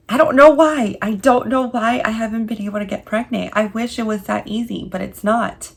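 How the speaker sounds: high, loud, tearful outburst; wanting to cry. Retold or imitated. Wife voicing what she wanted to cry out to family, tearful. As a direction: let the held-back tears break through. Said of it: "I just wanted to cry and be like".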